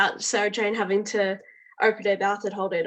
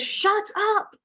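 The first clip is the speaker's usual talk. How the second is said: a sharp, much higher yell for silence; yelled command; 12 semitones higher than usual. Retold or imitated. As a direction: snap it to silence the room. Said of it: "I love how he goes".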